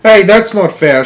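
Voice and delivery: high, loud shrill complaint; shrill old grandmother; shrill protest. A narrator's reading. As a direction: squeal it like a cheated old woman. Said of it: "shrilled Grandma Josephine".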